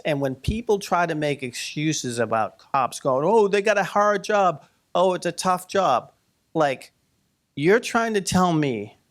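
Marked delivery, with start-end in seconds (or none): 3.3-6.1 higher-pitched mock sympathy; mocking excuse-makers. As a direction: parody someone making lame excuses. Mimics people excusing the cops.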